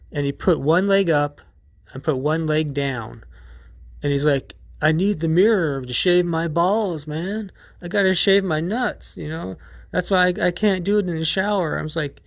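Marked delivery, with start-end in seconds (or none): 4.8-11.8 casual gym dude. Retold or imitated. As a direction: play the guy as breezy and unbothered, pitched up. Gym dude explaining himself.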